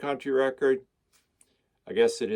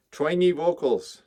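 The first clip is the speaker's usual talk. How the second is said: higher and slow, leaning hard on "Twangy"; mock dramatic reading; 6 semitones higher, 4 dB louder than usual. Shown as a demonstration. Rereading the quote to viewers, mock dramatic. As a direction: draw out "Twangy vocals" as if savouring the phrase.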